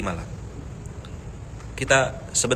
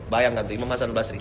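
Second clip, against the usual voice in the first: usual speaking voice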